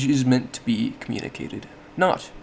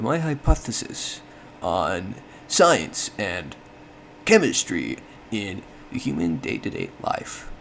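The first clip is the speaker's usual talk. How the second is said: every word set apart, SCIENCE and CHEMISTRY drawn out slowly; showy, word-by-word emphasis from "my hypothesis" onward; exaggerated emphasis; 2 semitones lower than usual. Shown as a demonstration. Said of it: "I put emphasis on each of the words".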